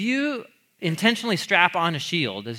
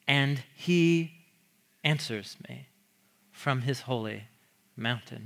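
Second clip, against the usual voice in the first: psalm reading. Acted. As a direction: read like a prayer that ends hushed.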